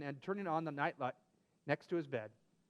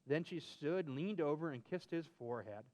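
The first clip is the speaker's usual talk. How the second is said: storybook reading; 3 semitones lower than usual. Acted. Story narration.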